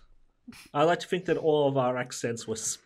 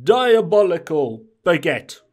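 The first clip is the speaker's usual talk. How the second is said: slow, louder mock French detective; a groan-worthy French drawl; bad French accent; 2 semitones higher, 7 dB louder than usual. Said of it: "put on your worst French accent".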